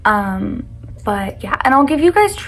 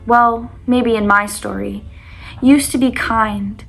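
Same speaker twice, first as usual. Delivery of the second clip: reading her poem aloud, louder; 4 dB louder than usual. Acted. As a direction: read it like a heartfelt poem. Reads her own breakup poem aloud.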